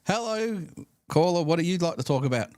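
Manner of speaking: high, loud, bright-eyed host greeting; imitated radio host. Radio host greets the next caller, high loud imitated host voice. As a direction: play a host eagerly taking the next call. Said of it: "he'd bring the next one".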